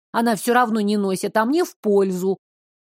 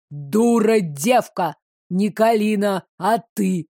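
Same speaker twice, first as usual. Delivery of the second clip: thundering. Acted. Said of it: "прогремел незнакомец".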